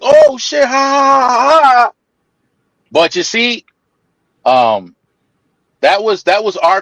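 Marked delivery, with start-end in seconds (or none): 0.0-1.9 high imitation of friends cracking up; mock laughing. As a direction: ham up the whole van bursting out laughing. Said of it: "everybody was laughing, like".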